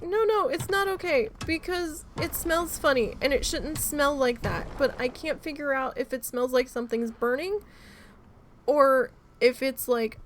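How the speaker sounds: retold upset protest. Wife protesting to husband about the smell, mock upset. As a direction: replay your own upset pleading, lightly. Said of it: "And I'm like".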